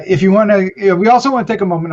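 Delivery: rushed, tripping over the words; stuttering. Real, not acted. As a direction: stumble through it, fumbling. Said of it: "I'm stuttering over this".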